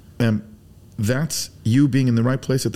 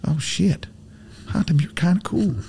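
higher voice of Texan guys; 7 semitones higher than usual. Retold or imitated.

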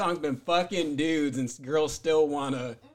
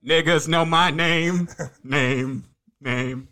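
excited; 6 dB louder, much slower than usual. Acted. Hyping himself up.

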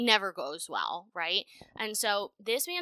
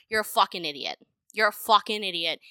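building rant; 6 dB louder than usual. Real, not acted. Ranting insult building louder.

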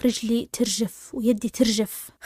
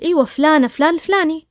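higher, insistent retold confirmation; 4 semitones higher than usual. Doctor confirms the patient's name, insistently retold. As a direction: confirm the name with raised pitch.

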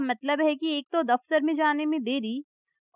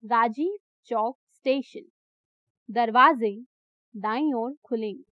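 lightly voiced station announcer; metro announcement; 3 semitones lower than usual. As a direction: read it like a metro speaker. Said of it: "speaker पर आवाज फिर से गूंजी".

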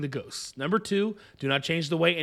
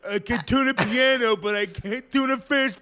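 put-on Irish accent; 5 semitones higher, 4 dB louder than usual. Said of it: "does an even better Irish accent".

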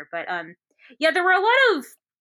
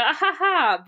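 higher, spoken-out "ha ha"; mock laugh; 6 semitones higher, 4 dB louder than usual. Shown as a demonstration. Showing what the joke didn't get, a mock laugh. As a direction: fake a big laugh in words. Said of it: "a laugh out loud joke".

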